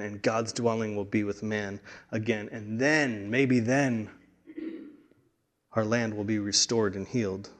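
hushed longing. Real, not acted. Hushed reflective longing passage.

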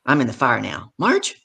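agitated retold appeal. Speaker asks Marge how long she talks, agitated.

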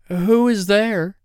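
high, slow put-on old granny voice; wolf stretching out a fake granny voice; wolf playing grandmother. A narrator's reading. Wolf in bed calls to the girl, high slow fake granny voice.

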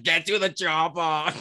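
hammed-up Austrian action-hero catchphrase; Arnold Schwarzenegger impression. Joking to co-hosts about Arnold's secret kid, mock Austrian impression. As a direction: draw it out in a mock Austrian accent. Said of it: "till the kid was like".

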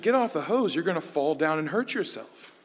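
imitating mom's high, sharp warning; mock stern mom. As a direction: warn the child sharply, like a mom who's had enough. Mom's corrected, simpler scolding.

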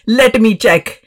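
imitating mother in an Indian accent; mock Indian accent. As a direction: put on mum's Indian accent. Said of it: "I just like to do the Indian accent".

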